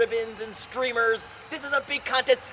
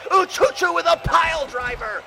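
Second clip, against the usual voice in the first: big shouted pile driver call; 3 semitones higher, 5 dB louder than usual. Acted. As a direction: yell it out to the crowd. Play-by-play call, repeated.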